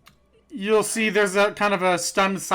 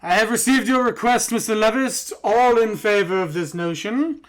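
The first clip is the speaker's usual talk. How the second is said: slightly raised, formal chair voice; speaker addressing the chamber; 5 semitones higher, 4 dB louder than usual. Acted. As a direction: preside over the house with authority. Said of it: "puts his hands up and says".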